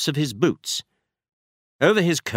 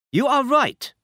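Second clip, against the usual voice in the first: put-on a higher, proud Bohemian noble with a German accent; a masked aristocrat in a German accent. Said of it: "He had a strong German accent".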